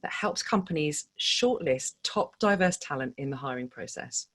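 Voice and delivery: polished, measured scripted intro; podcast intro read. Acted. Host welcomes listeners to fundraising stories, scripted intro read. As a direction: read it as a show opener.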